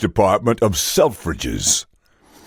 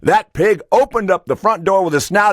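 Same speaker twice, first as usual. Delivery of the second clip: animated farmer spinning a tall tale; lightly voiced farmer, slightly raised pitch; 4 semitones higher than usual. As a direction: recount the rescue like a proud farmer. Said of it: "He goes".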